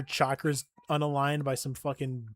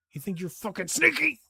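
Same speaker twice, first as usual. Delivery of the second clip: mocking taunt; 6 semitones higher, 4 dB louder than usual. Real, not acted. Taunting enemy, voice shifts up.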